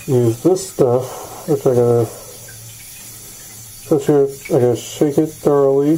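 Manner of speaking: muffled behind a respirator mask; talking through a face mask. Real, not acted. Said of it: "my respirator voice a moment ago".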